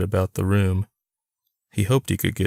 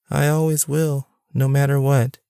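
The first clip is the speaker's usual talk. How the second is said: dad's voice; 7 semitones higher than usual. A narrator's reading. Dad voiced in story.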